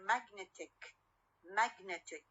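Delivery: "magnetic" with the stress on NET; stress shifted to NET. Shown as a demonstration. Teacher showing the stress shift from magnet, NET stressed in "magnetic". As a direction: move the weight to NET in "magnetic". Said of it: "والستريس ما تبقى على أول syllable".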